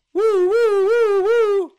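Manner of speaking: high, loud woo-hoo cheering; excited whooping. Real, not acted. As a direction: whoop it up, thrilled. Cheering on the gamble.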